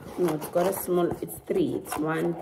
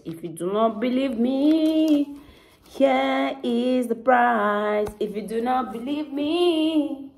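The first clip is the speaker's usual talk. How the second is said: higher, drawn-out playful announcement; playful showing off; 5 semitones higher, 4 dB louder than usual. Pretend. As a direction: stretch the words out high, teasing the viewers.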